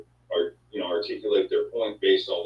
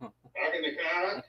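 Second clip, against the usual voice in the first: put-on Boston accent; 7 semitones higher, 7 dB quieter, slower than usual. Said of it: "Does he have an accent?".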